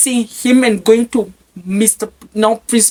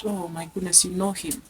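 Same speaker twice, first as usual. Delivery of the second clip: much softer shocked aside; inner voice; 10 dB quieter than usual. Retold or imitated. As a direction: say it to yourself in shock. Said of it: "I said in my heart".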